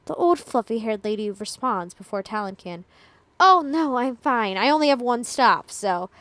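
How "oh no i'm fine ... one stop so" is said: put-on Jersey accent. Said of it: "she says in a thick Jersey accent".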